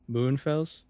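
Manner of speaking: Moenfels said as "moon-fels", rising like a question; umlaut guess. Shown as a demonstration. Guessing the German O for an American, tentative umlaut. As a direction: try "Moenfels" with an oo sound and a questioning rise. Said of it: "I'm thinking it would be like".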